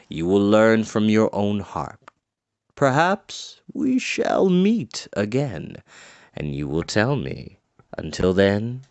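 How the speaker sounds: an ancient sage pointing the way; wise old man. Acted. Medwin's farewell speech.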